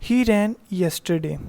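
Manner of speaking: slow, careful read-aloud of the example; teacher dictating an example. Shown as a demonstration. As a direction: read the sentence out slowly for the class. Teacher reads example slowly.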